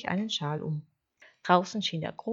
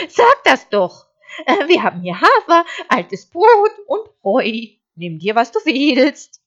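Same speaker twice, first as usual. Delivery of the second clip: naive sheep, helpful; 7 semitones higher, 17 dB louder than usual. Acted. Sheep offering its food to the wolf, high bleat.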